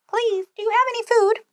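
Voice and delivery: high, breathless whisper; small boy whispering a plea for food. Acted. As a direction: ask timidly under the breath. Jack asks the giantess timidly.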